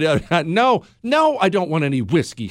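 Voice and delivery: ordinary talk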